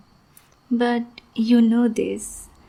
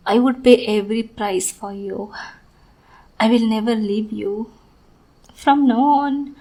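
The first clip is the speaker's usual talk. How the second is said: sweet on the surface, unhinged underneath; obsessive sweet lover. Acted. Yandere lover's sweet monologue.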